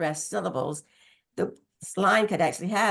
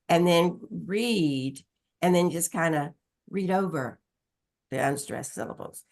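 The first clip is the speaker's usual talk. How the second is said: slow demo reading. Shown as a demonstration. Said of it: "Mark only stressed syllables".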